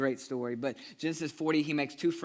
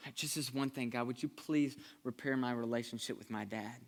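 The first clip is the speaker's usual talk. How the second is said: soft, pleading, broken prayer; desperate quiet prayer. Pretend. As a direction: beg God under your breath. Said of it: "where you've said".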